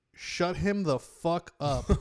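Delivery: sudden, high, snapped-out yell. Telling a story, the speaker recounts turning to a family and yelling: retelling a yell. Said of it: "I full turned at this family and yelled".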